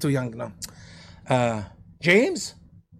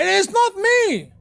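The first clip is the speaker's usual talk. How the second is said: very high, slow pleading wail; desperate cry; 14 semitones higher, 3 dB louder, slower than usual. Retold or imitated. Judas crying out at his crucifixion, high desperate wail. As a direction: cry out in despair. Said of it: "He cried".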